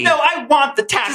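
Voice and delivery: high, insistent voice; Brenda reenactment. Acted. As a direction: insist like a hammed-up teen girl. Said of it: "me and Robert are gonna reenact it".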